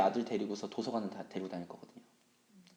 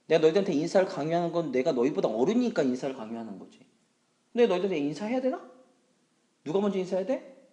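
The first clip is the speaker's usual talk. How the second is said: raised-pitch, insistent dressing-down; stern scolding lecture; 4 semitones higher, 6 dB louder than usual. Acted. Teacher justifying himself to kids, raised insistent scolding. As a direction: lecture them like an indignant teacher.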